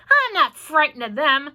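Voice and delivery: shouted. A narrator's reading. Centipede defying the cloud men, loud. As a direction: shout your bravado. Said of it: "the centipede shouted".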